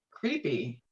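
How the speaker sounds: ordinary talk, nothing marked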